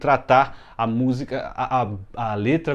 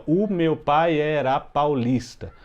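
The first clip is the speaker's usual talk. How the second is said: slow, syllable by syllable; syllable counting; much slower than usual. Shown as a demonstration. Teacher to students, counting syllables slowly and evenly. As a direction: count each poetic syllable aloud. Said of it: "se eu contar aqui".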